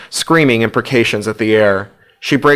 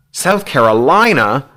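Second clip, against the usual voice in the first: screaming; 4 semitones higher, slower than usual. A narrator's reading. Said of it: "Hugh screams".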